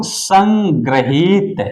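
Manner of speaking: संग्रहित drawn out slowly with a rise; slow teacher dictation. Shown as a demonstration. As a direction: say संग्रहित slowly so it can be written. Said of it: "जैसे लिखते हैं कुछ लोग".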